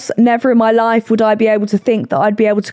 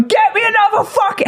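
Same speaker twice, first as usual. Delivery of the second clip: mock angry demand; 12 semitones higher than usual. Hannah's demand retold.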